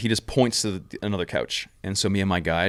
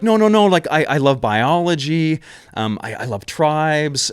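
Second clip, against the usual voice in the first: much higher and louder, protesting in a rush that trails off; panicked denial; 6 semitones higher, 4 dB louder than usual. Retold or imitated. Mike protesting to the governor that they're not spies, panicked. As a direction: scramble to prove you're innocent. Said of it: "And we're like".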